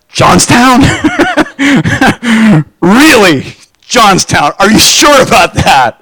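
laughs through an incredulous "Johnstown?"; mock scoffing, half-laughing doubter; laughing disbelief. Mocking doubt about Johnstown.

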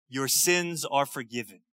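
low, hushed pronouncement of forgiveness; quiet, low quoted reassurance; gently forgiving. Retold or imitated. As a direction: drop low and soft to pardon someone. Jesus quoted forgiving the woman.

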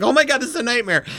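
high-pitched imitation of a panicked viewer; retold freak-out. Host retelling Debbie's horror at the scene, freaking out. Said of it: "freaking out through this whole thing".

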